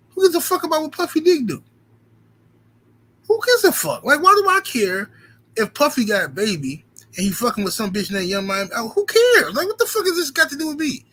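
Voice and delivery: climbing furious rant at a friend; exasperated outburst. Retold or imitated. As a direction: blow up at the pointless gossip.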